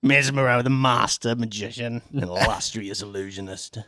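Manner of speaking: grand stage magician announcing himself; lightly hammed-up showman; magician character voice. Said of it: "This is my character voice".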